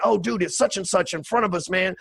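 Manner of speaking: mock breathless fan excitement; star-struck gushing. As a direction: imitate a guy freaking out over celebrities. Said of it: "he's freaking out going".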